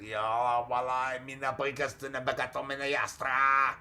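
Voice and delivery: half-hearted babble of made-up syllables; mock speaking in tongues. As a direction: imitate someone rattling off tongues, not really shouting. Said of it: "Speaking in tongues".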